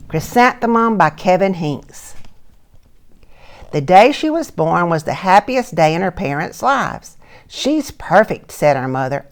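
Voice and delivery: bright, lively read-aloud voice; storybook reading. A narrator's reading. Teacher reads a picture book to children, animated. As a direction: read the story out to the little ones.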